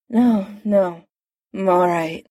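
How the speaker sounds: slightly slurred, drowsy speech; words a little slurred, sedated. Acted. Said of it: "came a slightly slurred voice".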